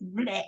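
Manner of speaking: low, soft blurted bleh. Shown as a demonstration. Writer mimics dashing off the story, blurted bleh. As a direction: spit out a quick bleh. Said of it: "that's how that sounds".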